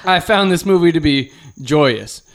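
put-on slow, earnest kid reviewer; kid critic voice. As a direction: savor the word joyous like a boy critic. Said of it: "it's like".

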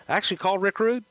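high, mock-horrified disbelief; retold incredulous question. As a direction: echo it back high in disbelief. Retold shock at who was called.

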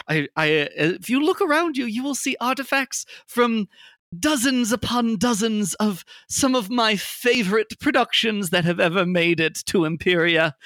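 high, proud tailor voice; Tim Taylor. Acted. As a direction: boast of the shop grandly.

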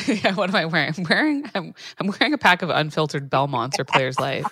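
raspy voice from a lingering cough; hoarse after covid; smoker's rasp. Real, not acted. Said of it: "You still sound like you smoke".

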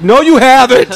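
high mock yell; retold shouted comeback. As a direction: imitate yelling a flat contradiction across the way. Acts out yelled comeback in quarrel.

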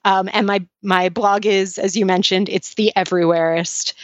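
slushy sh for s with braces; slurring from braces. Real, not acted. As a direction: talk through braces, s sounds smeared. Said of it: "if it sounds like I'm slurring any of these words, it's because I am an adult with braces".

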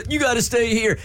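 hammed-up husband begging her to stay; mock whiny husband. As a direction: whine it like the clingy husband. Mimicking husband insisting she stay.

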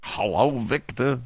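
drawled New York greeting, slow and drawn out; put-on New York accent. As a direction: stretch it out like a New Yorker. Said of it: "I'm assuming Victor's in New York".

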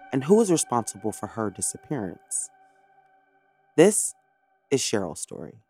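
true crime narrator. Acted. Scripted true crime episode intro.

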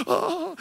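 imitating a high sobbing gasp; high whimpering sob, mimicked; mock high sob. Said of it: "hacía así".

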